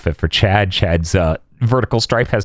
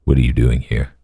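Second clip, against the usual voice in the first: imitating Byakuya; 9 semitones lower than usual. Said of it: "Byakuya's like".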